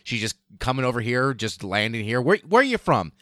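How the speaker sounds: a hint of an Irish lilt, ending in a high surprised question; Irish guys. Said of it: "these just Irish guys being like".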